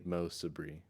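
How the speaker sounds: Sabri said like Sabrina minus "na"; preferred pronunciation. Shown as a demonstration. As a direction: say Sabri as "suh-BREE". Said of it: "like Sabrina without the N A".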